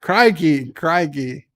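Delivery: put-on Aussie exclamation; mock Australian accent. Streamer practising the Aussie accent from a viewer's tip, mock Australian. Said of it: "go nasally on the Aussie accent".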